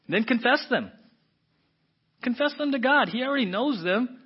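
high, loud, forceful exhortation; impassioned preaching shout. Real, not acted. Preacher urges listeners to confess to God, impassioned shouting. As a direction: belt it out to the whole room.

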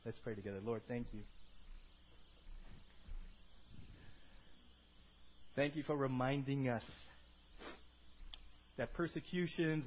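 measured, earnest prayer voice; sincere, unhurried address to God; congregational prayer. Real, not acted. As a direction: lead the room in prayer with long pauses. Leads closing prayer.

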